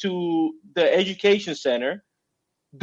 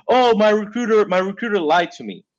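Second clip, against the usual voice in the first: higher, louder whiny complaint; mock complaining recruit; 4 semitones higher, 5 dB louder than usual. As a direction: whine like a kid blaming someone. Mocking recruits blaming their recruiter.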